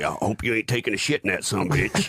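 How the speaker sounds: quick, lightly voiced Southern politician; LBJ. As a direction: imitate a folksy Southern president, half laughing. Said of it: "was totally like L B J".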